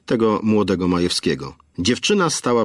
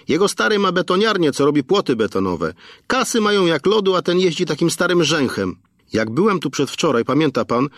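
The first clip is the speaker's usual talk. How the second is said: dish the dirt eagerly; gossipy young attendant; 8 semitones higher than usual. A narrator's reading. Roman butts in behind Aneta with gossip, high and eager.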